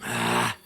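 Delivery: low, breathy groan of pain. Acted. Beaten man checking his injuries, pained low groan. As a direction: let out a hurt, voiceless sigh. Hurt man after a fight.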